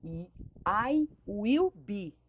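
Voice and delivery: drawn out, one word at a time; very slow example. Shown as a demonstration. Teacher sets up the negative for students, very slow. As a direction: stretch I will be out very slowly. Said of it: "Eu tinha".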